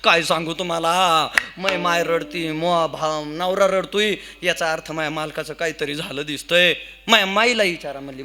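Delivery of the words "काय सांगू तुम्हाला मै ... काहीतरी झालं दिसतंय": mock tearful wail. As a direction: pretend to wail out the explanation through tears. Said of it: "पोरगी लोळू लोळू रडत होती".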